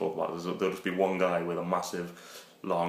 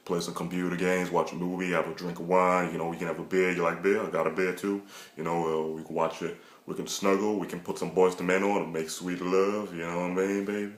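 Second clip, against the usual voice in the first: smooth lover voice. Shown as a demonstration. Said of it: "So just strictly black voice".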